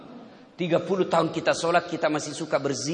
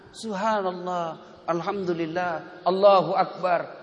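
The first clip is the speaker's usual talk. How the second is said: slow dhikr; slower than usual. Shown as a demonstration. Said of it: "tinggallah sejenak".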